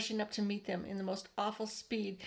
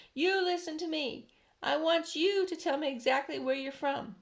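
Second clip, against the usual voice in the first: mild stern shout; 7 semitones higher, 4 dB louder than usual. A narrator's reading. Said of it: "shouted the chief of police".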